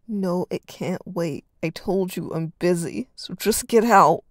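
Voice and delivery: slow build to a loud yell on get out. Acted. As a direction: snap him out of the room. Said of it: "Reed yelled".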